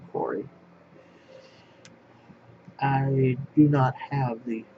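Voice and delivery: ordinary talk, nothing marked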